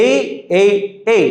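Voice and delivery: A said as a short "eh"-like vowel; short repeated vowel sound for A; letter sound. Shown as a demonstration. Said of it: "I sounds like A".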